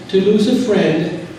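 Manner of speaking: a father gently comforting his daughter over her dead turtle; gentle, empathetic. Shown as a demonstration. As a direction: say it slowly and gently, staying with the child's grief. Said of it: "helps her to be with her feeling".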